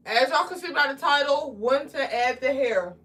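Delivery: talking around a piece of candy; candy in mouth while speaking; mouth full. Real, not acted. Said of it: "Sorry, I got candy in my mouth".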